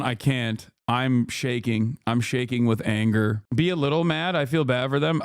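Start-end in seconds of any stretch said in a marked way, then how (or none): 0.0-3.4 mock shaking anger. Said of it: "Bro, calm down".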